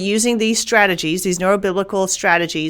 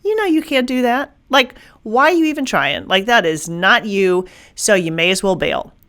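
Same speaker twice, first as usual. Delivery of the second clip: mocking inner doubter. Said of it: "there's this core belief like".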